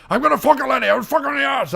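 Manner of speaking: lightly voiced gruff action-hero lines; a hint of a movie tough guy; Liam Neeson impression. Recording a Skype call, a light Liam Neeson impression. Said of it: "I do my Liam Neeson impression".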